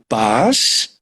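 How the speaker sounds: "paz" drawn out slowly as one syllable; older sister modelling "paz" with the final s held; demonstrated syllable. Retold or imitated. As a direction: stretch "paz" slowly through its final sound. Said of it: "você não vai ler pá".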